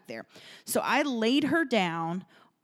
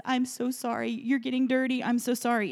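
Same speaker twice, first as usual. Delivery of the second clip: higher-pitched, helpless retold apology; pleading apology, pitched up a little; apologizing; 4 semitones higher than usual. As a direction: imitate a flustered, repeated sorry. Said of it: "looking at the woman apologizing".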